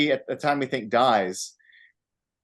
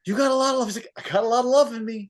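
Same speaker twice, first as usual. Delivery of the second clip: imitating heartfelt confession; 8 semitones higher, faster than usual. Retelling Tracy Morgan's heartfelt line.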